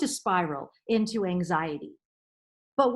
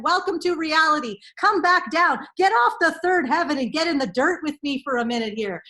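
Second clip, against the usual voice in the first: blunt reality check; 4 semitones higher, 5 dB louder than usual. Retold or imitated. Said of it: "you're like".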